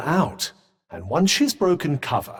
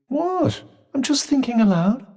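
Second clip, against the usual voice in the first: high-pitched, defensive protest; indignant protest; 10 semitones higher than usual. Acted. Companion defending a stray remark, indignant. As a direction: jump up high in innocent protest.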